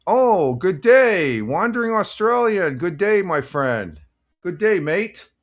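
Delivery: high, loud, delighted hello; excited greeting. Real, not acted. Greeting a viewer who arrived.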